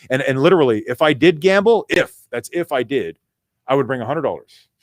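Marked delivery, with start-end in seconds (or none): 1.9-3.2 "if" set apart and drawn out; slow down and lean on "if"; stress on IF. Real, not acted. Stresses that it is hypothetical.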